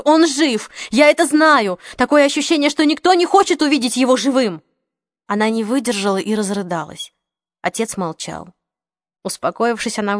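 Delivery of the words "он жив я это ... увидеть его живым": high, loud desperate cries; desperate shouting. A narrator's reading. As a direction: keep shouting, refusing to give up. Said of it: "Голос Марион сорвался на крик".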